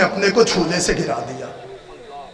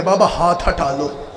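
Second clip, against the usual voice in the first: weeping plea; 3 semitones lower, 4 dB quieter than usual. Acted. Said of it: "Akbar रो के कहते".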